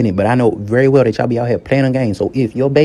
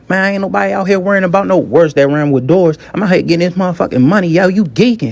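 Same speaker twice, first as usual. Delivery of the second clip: raised, higher, dismissive phone retort; annoyed guy on phone; 5 semitones higher than usual. Retold or imitated. A man brushes off his baby mama, raised and dismissive. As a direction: snap back at her, a bit higher. Voicing Super Dummy on phone.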